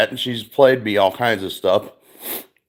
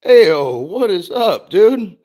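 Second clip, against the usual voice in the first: loud, higher hey-what's-up; hype greeting; 9 semitones higher, 4 dB louder, slower than usual. Real, not acted. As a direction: greet a buddy who just showed up. Streamer greets chat viewer.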